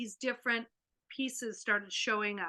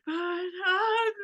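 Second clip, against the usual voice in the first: put-on high hesitant child; 9 semitones higher, 7 dB louder than usual. Child hesitating before hug.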